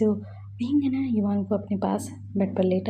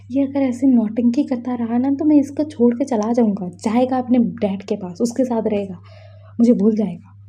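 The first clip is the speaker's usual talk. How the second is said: exasperated scolding; 5 dB louder than usual. Acted. Scolding child's antics.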